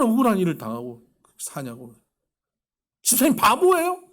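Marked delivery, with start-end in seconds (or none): 3.0-4.0 high, loud exasperated yell; angry yell. Retold or imitated. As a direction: snap at the deacon in disbelief. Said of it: "막 성질을 막 내는데". (높고 크게 버럭 지르는 핀잔)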